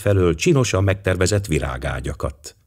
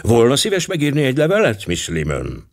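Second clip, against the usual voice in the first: firm voice; 6 semitones higher than usual. A narrator's reading. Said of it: "majd határozott hangon megszólalt".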